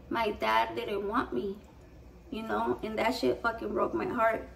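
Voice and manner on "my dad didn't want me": put-on quiet sad child. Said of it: "my brother said".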